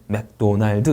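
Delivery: 맥도날드 with every syllable full; Koreanised 맥도날드; Korean syllable-by-syllable pronunciation. Shown as a demonstration. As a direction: say 맥-도-날-드, ending on an added vowel. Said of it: "이렇게 하시죠".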